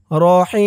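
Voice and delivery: রহিম with a very long held ee; long chanted ee before closing m in রহিম; three-alif stretch. Shown as a demonstration. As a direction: draw out the ee of রহিম for three beats. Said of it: "এখানে তিন আলিফ টান".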